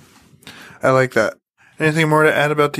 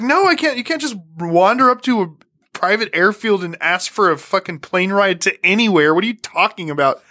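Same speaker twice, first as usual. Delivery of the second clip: refusing employee; 2 semitones higher than usual. Retold or imitated. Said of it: "he's like".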